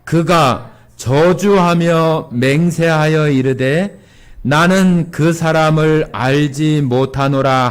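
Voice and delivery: slow, measured unison reading; reading scripture together. Shown as a demonstration. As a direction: read it together slowly. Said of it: "칠십사 절 같이 읽어보겠습니다".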